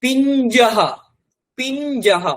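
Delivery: পিঞ্জহ said clearly, ending in a breathy h; Sanskrit word. Shown as a demonstration. Teacher modelling the Sanskrit word for switch. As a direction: sound out পিঞ্জহ for the class. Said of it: "বাঁ দিকে দেখুন শব্দ লেখা রয়েছে".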